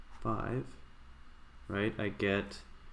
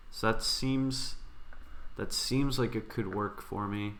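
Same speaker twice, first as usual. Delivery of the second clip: talking around a pen in the mouth; words slightly muffled by a pen; pen in teeth. Real, not acted. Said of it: "Shouldn't be talking with a pen in my mouth".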